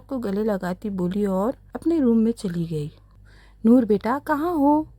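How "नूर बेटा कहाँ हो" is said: louder call across the house; mother calling her daughter from the door. A narrator's reading. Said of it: "नूर को पुकारती हुई बोली".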